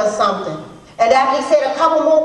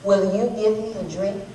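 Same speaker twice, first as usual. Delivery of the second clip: soft, lower polite request; real polite; 5 semitones lower, 6 dB quieter than usual. Retold or imitated. Stranger asking the woman for a drink, real polite. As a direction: ask gently and courteously, keeping it soft. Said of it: "he asked me real polite".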